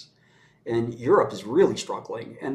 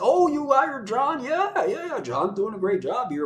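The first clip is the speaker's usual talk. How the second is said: much higher, slow, gushing mock politician; mock fawning official; 9 semitones higher than usual. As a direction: ham up a flattered politician. Official fawning over a lobbyist.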